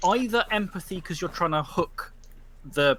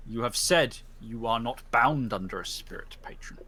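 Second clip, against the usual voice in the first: solemn judge's verdict. Acted. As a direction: pronounce judgement on the pack.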